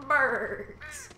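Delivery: word stretched into a neigh; horse impression. Friend shows any word can sound horsey, neighing. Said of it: "anything can sound like a horse if you use that".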